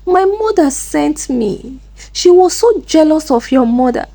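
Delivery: high-pitched, agitated outpouring; mild shouted confession. A narrator's reading. Chisom on the ground confessing to Amaka, agitated cry. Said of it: "started shouting, shaking and confessing".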